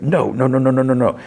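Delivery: high, rapid-fire string of dismay; mock panic. Man whose engine stalls as he flees, mock panic.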